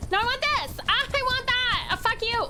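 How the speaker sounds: high, whiny demanding; a greedy horse rejecting food, lightly voiced; bratty horse voice. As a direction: play the spoiled horse rudely. Voicing a picky horse.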